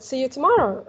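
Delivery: "See you tomorrow" with a lift and fall on "tomorrow". Shown as a demonstration. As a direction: model "See you tomorrow" with a lively tune. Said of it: "put more intonation".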